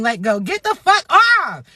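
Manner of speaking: yelling at Jack to get off; mock scream. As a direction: shove him off with a mock shout. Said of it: "I would have been screaming".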